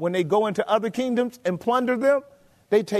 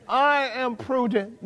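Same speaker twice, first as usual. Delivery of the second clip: slow, self-satisfied boast; boastful king; 3 semitones higher, slower than usual. Acted. Preacher mimics the proud king admiring himself, slow and boastful. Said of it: "Do you see him boasting".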